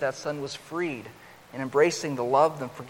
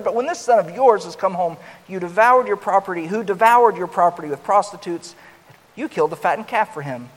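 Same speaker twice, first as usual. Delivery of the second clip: loud, resentful, rising indignation; bitter angry outburst; 4 semitones higher, 7 dB louder than usual. Acted. Older son to his father, loud resentful outburst. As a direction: hurl the complaint, louder. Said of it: "he responded bitterly and angrily".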